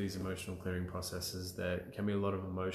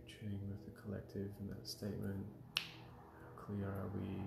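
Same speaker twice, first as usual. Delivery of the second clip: quiet aside; 9 dB quieter than usual. Real, not acted. Quiet check with the collective.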